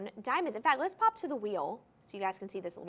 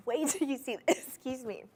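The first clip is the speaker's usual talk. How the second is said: laughing. Real, not acted. Laughs while teasing next ring.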